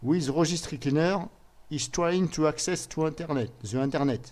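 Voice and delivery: English read aloud in a real French accent. Real, not acted. Presenter reading a firewall alert to viewers, French-accented English. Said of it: "désolé de mon accent anglais".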